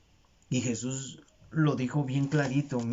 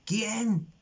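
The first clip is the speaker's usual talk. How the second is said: higher-pitched imitation of a tearful plea; retold weeping plea; 5 semitones higher, slower than usual. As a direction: cry out the question in mock lament, without real sobs. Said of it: "Juan lloraba y decía".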